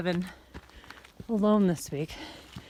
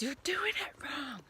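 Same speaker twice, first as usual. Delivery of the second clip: quoting Ben; 7 semitones higher, 6 dB quieter, slower than usual. Retold or imitated. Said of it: "And Ben says".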